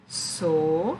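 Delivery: sonâmbulo split so... nâm... bu... lo; syllable by syllable. Shown as a demonstration. Teacher showing pupils how sonâmbulo divides, syllable by syllable. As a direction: separate beats with gaps in sonâmbulo.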